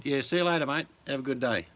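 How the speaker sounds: a cheery German farewell, hammed up; mock German accent. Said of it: "your accent started to turn a bit Russian".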